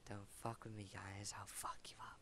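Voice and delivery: soft, breathy threat; menacing whisper. Acted. Slasher threatening other players.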